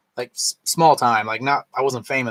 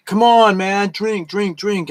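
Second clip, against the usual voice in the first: higher-pitched pushy buddy imitation; mock peer pressure; 6 semitones higher, slower than usual. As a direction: imitate friends egging someone on. Mimics pushy drinking buddies.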